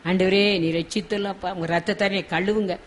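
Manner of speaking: hushed, understated plea to God; pleading prayer, modelled. Shown as a demonstration. Preacher modelling a prayer for cleansing, softly pleading. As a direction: softly show how to beg in prayer. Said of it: "நம்ம கெஞ்சி கேட்போம்".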